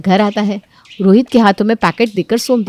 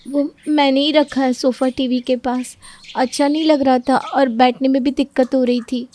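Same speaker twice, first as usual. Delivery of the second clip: meek daughter-in-law; 5 semitones higher than usual. Acted. Daughter-in-law explaining to mother-in-law, meek. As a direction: explain gently, a bit afraid.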